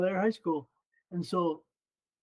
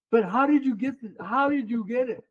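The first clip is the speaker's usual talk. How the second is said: higher, insistent repeated question; imitated bafflement; 4 semitones higher than usual. Clerk presses him about the certificate, retold incredulous insistence.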